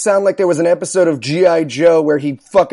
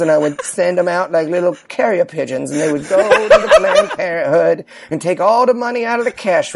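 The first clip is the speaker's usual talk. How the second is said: calm Dahmer voice; 3 semitones lower than usual. Retold or imitated. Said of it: "that's how he talks".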